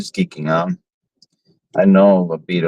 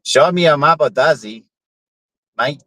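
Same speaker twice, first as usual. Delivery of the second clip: cheeky repeat; 5 semitones higher than usual. Pretend. Repeating the cheeky line to the AI, bolder and higher. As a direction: say it again, a bit higher and bolder. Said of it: "And I said it again".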